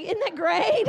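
high-pitched mock weepy delight; imitated tearful gushing. Churchgoer turns to the speaker, mock tearful gushing. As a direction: gush like the overwhelmed girl. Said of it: "the girl next to me starts bawling".

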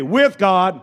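firm, punched call-out for the room to echo; loud call-out. Shown as a demonstration. Preacher prompting the congregation to repeat it, loud. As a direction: lead the crowd, loud and emphatic. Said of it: "say it loud".

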